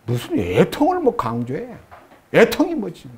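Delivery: mock grumbling, understated; imitating a peeved churchgoer's objection; acted irritation. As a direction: complain with a touch of annoyance. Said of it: "이렇게 짜증을 내면 안 돼요".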